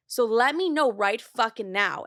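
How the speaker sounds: emphatic, drawn-out mock ultimatum; shutting it down. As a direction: imitate a sister laying down the law. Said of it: "shuts it down like no other".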